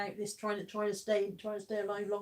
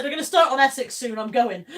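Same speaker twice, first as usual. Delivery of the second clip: imitating Peter; 3 semitones higher, 11 dB louder than usual. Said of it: "Peter's like".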